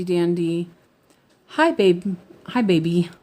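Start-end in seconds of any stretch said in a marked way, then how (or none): 1.5-3.1 a loud, cooing hello to a loved one; sweet greeting. Real, not acted. Greeting Alex fondly as he arrives, loud and cooing. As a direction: coo a fond hi to him. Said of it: "That sounds so funny".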